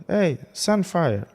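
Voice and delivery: high-pitched goofy taunt, drawn out at the end; teasing Spider-Man. Retold or imitated. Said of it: "a Spider-Man going to the dude and going like".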